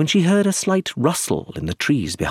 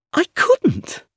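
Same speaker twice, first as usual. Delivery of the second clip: put-on lighter, higher young woman, quick; higher voice for Iris, asking to leave; young woman's voice. A narrator's reading. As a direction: Iris asking to slip away.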